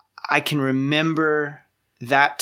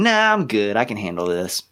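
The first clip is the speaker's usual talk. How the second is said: stubborn brush-off; 4 semitones lower than usual. Retold or imitated. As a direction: wave off the advice, mock-confident. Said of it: "stubbornly going".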